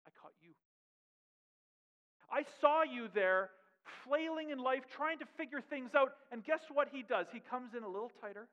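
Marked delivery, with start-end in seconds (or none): 0.1-0.5 tender hush. Acted. Jesus voiced tenderly to Peter. 2.3-6.2 fervent call. Acted. Jesus voiced calling to Peter.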